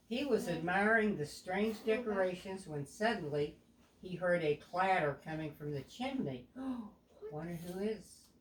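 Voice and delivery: put-on a clear, even storybook read to a young child; storytelling narration. A narrator's reading. Parent reading a picture book aloud to a child, storybook voice.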